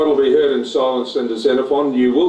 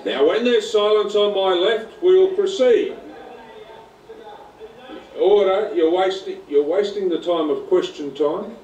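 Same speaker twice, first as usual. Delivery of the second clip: raised, high call for silence; shouting order order; 5 semitones higher than usual. Real, not acted. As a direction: cut through the noise, call the chamber to order. President calls chamber to order.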